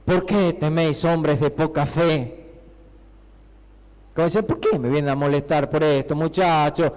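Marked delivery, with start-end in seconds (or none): 0.0-2.4 understated, conversational reproach; low-key chiding, easing slower at the end; seated, mild rebuke. Acted. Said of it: "Como que se sienta y". 4.4-6.9 mildly bothered, lowered complaint; understated weary reproach; Jesus. Acted. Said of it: "Como que algo así le dice Jesús".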